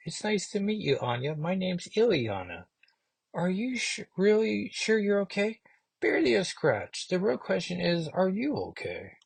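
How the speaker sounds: high, soft, badly faked Russian accent; horrible Russian accent. Reviewer voicing Ilyana to the boy, clumsy Russian accent. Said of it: "It's a horrible Russian accent".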